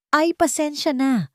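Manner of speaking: a high, slow, hurt apology; quiet apology. Acted. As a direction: hold back the tremble as you apologise. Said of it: "mahinang sabi ni Sinag". (mahinang paumanhin na nanginginig)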